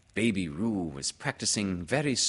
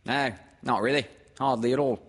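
higher, louder mother character; brisk refusal, pitched up; Kanga; 6 semitones higher, 5 dB louder, faster than usual. Acted. Mother brushing off Pooh, in a raised brisk voice. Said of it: "said Kanga".

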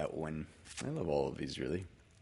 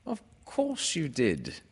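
reassuring; 7 semitones higher than usual. A narrator's reading. Narrator reassures Christopher Robin.

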